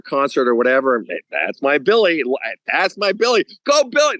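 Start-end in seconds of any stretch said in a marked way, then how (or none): 1.3-4.2 cheering parent. Retold or imitated. Proud parent cheering in stands.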